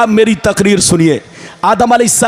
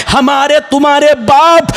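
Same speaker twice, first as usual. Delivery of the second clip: rhythmic, chanting sermon delivery with stretched words; full-force preaching; 3 semitones higher than usual. Acted. Preacher relays God's question to Adam, rhythmic chanted preaching. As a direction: preach it in measured, ringing phrases.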